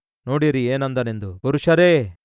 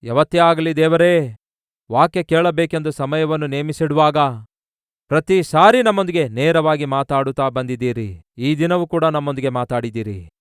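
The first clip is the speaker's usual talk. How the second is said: raised, earnest prayer to God over music; fervent prayer. Acted. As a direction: pray aloud with rising fervour. Closing prayer.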